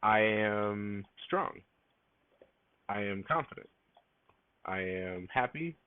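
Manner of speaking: slow affirmation. Shown as a demonstration. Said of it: "and say".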